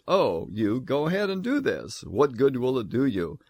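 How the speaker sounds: mock permission, understated scorn; sarcastic tone. Preacher voicing God daring Israel to keep sacrificing, mildly sarcastic. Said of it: "there is a tone that says".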